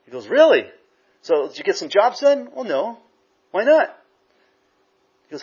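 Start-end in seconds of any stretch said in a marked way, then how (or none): 0.3-4.0 boss grilling. Retold or imitated. Boss voiced questioning employee.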